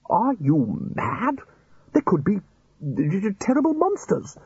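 high, slow stammering fright; mock-fearful stammer. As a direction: stammer out the terror. Fearful stammer about monsters.

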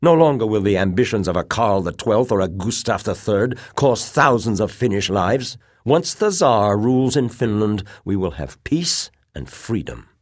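high, loud, excited argument; hot with conviction. A narrator's reading. Officer urging a future under the Tsar, hot with excitement. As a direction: argue hotly, with fervent conviction. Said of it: "voice was hot with excitement and conviction".

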